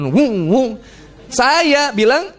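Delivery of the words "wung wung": rising "wung" noises; imitated plane swooping. Preacher shows the plane rising and dropping, imitated swoops. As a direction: make the plane go up and down. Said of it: "Pesawat naik turun".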